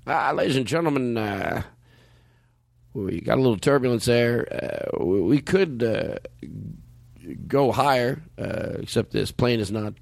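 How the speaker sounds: a hint of a laid-back captain on the PA; pilot announcement voice. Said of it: "I'll do the pilot voice".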